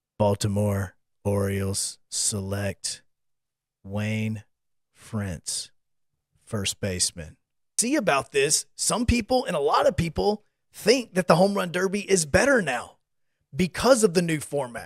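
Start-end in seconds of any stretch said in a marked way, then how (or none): 0.2-7.4 very low, flat, mechanical robot monotone. Recalling the old baseball draft by phone, doing a weird robot voice announcing a pick. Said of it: "you would hear this weird robot voice go".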